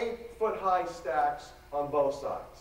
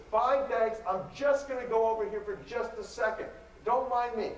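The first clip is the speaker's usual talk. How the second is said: higher, breezy brush-off; stalling the pushy librarian, higher and breezy; polite brush-off; 8 semitones higher than usual. Retold or imitated. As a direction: wave him off sweetly, higher.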